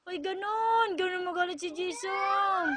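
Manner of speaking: loud cheering exclamation; loud delighted exclaim. Real, not acted. Mother loudly cheering her son's angry face.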